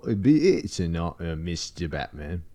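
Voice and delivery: a hint of Michael Caine. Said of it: "Yes, that was closer".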